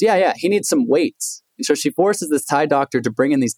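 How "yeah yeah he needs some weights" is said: slow, higher-pitched breezy mom; matter-of-fact insistence, drawn out; imitating mom. Mother telling doctor her son needs weights, slow and high. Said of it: "She goes".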